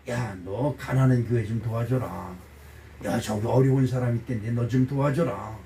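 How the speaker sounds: low, quiet voice of God; inner divine voice. Acted. God prompting the preacher to help the poor, low quiet voice. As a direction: drop low for a calm instruction from above. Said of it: "이런 음성이 자꾸 들려와요".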